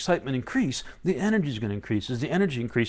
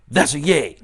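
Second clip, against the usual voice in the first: mock cheer; 8 dB louder than usual. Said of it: "and say".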